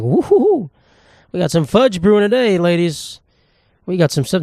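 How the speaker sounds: high whooping hype-man voice; hammed-up cheer to the ladies; mock hype. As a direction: announce it like a gross party host. Cheering after cleaning his ears.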